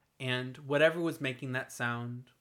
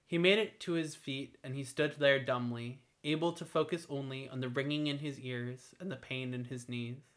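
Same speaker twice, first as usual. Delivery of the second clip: plain reading voice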